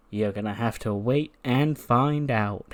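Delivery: slow, drawn-out taunt; teasing villain. Acted. Wrestler teasing the crowd about the attacker, slow taunt. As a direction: tease it out slowly.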